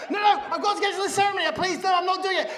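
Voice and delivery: high, fast, frantic protest; panicked refusal. Retold or imitated. Patient trying to leave for ceremony, panicked refusal. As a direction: beg off in mock panic. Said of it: "I'm not having the operation".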